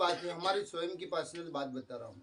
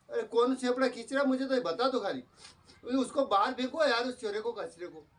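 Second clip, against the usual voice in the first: mock angry rant; 5 semitones higher than usual. Husband acting out an irritated complaint to his wife, mock angry. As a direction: complain crossly, half-acted. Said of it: "गुस्से में".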